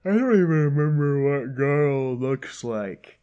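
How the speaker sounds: loud, exasperated complaint with a strained timbre; exasperated outburst. Real, not acted. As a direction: blurt it out in frustration. Frustrated outburst at game.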